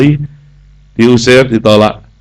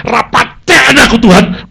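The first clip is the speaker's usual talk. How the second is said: earnest prayer; 11 semitones higher, 3 dB louder than usual. Acted. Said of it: "jaluk tolong awakmu".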